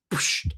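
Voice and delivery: quick "psh" noise; imitated smack. Retelling how he slaps it on, imitated smack. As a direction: mimic food being slapped on with a psh.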